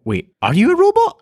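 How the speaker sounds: high-pitched incredulous question; mock disbelief. Man questioning a telemarketer, mock incredulous. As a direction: retell it with the voice shooting up. Retold startled question to caller.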